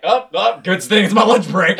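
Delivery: high-pitched mock cheer; acted-out high-voiced aside; mock reaction. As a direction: pitch it up, playing a lucky escape. Acts out own relieved dodge.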